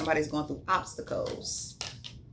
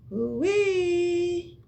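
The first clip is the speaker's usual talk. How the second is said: excited; 11 semitones higher than usual. Real, not acted. Reaction to a card.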